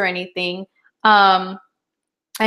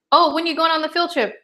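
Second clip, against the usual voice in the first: mock surprised parent; 7 semitones higher, faster than usual. Parent questioning kid.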